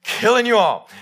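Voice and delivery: Killing punched loud and high in a hammed-up divine roar; over-the-top booming God; mock God shout. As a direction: bellow Killing you all as God's motto. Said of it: "That seems to be God's motto".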